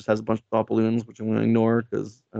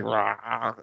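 soft-edged imitated growl; half-hearted drawn-out snarl; mock roar; 4 dB quieter than usual. Imitates the villain roaring back.

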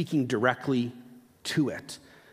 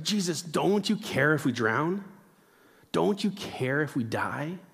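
put-on angsty teenager. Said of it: "are asking like an angst-filled teenager".

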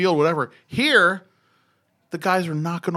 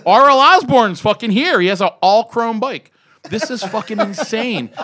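excited rant; 6 semitones higher, 6 dB louder than usual. Retold or imitated. Excitedly telling friend.

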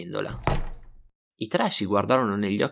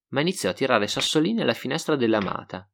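usual speaking voice

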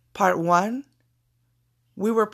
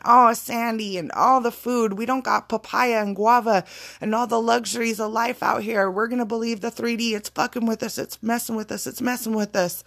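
whiny complaining; 2 semitones higher than usual. Retold or imitated. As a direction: lightly whine like grumbling wanderers. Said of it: "bitching and moaning and complaining".

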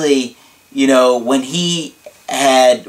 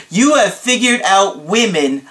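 higher, emphatic amazement with a long-drawn HOW; dramatic client imitation; 4 semitones higher, slower than usual. Astonished client asking his coach, dramatically drawn out. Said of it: "I can't do his voice that great, but he's like".

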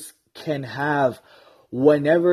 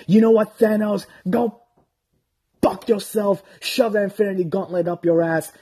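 fired-up taunt; 5 semitones higher than usual. Real, not acted. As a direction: hype it up against the villain.

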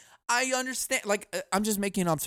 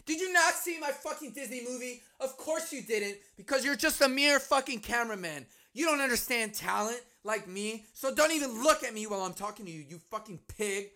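high, condescending mock celebrity scorn; hammed-up star belittling her crew; snooty diva; 4 semitones higher, 5 dB quieter than usual. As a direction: sneer down at the cameraman. Voices Ellen berating cameraman.

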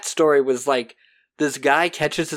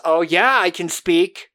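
louder, higher, gloating; triumphant retort; 4 semitones higher, 5 dB louder than usual. Retold or imitated. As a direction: throw it back at him with triumph. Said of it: "And she goes".

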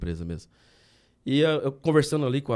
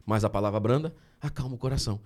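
scripture quote. Shown as a demonstration. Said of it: "Provérbios quinze".

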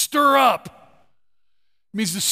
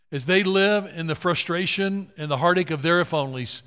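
closing prayer; 3 semitones lower than usual. Acted. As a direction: pray over the room, gently. Closing prayer over congregation.

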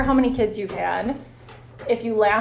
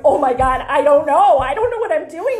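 panicked inner voice; 5 semitones higher, 5 dB louder than usual. Retold or imitated. Panicking in her head after patient.

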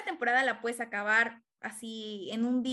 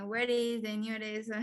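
put-on French accent; 2 semitones lower, slower than usual. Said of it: "le contesta con un acento francés".

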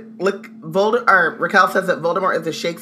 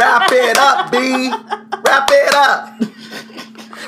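impatient cut-off; 5 semitones higher, much slower than usual. Retold or imitated. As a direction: tell him to wrap it up. Neville cutting Voldemort off.

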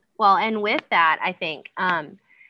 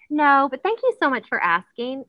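higher-pitched, kindly no; kind refusal; 6 semitones higher than usual. Acted. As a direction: turn them down sweetly, full of thanks. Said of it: "kind way to tell someone no".

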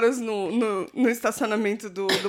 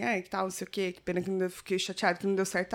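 softer retold reply; 4 semitones lower, 8 dB quieter, faster than usual. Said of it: "eu falei pra ele assim".

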